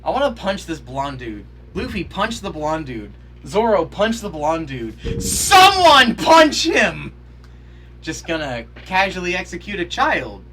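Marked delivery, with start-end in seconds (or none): 3.5-5.2 more insistent. Real, not acted. Egging characters on at screen. 5.2-7.1 much higher, loud, slow yell; frustrated yell. Real, not acted. Viewer yelling at the screen for a punch, frustrated yell.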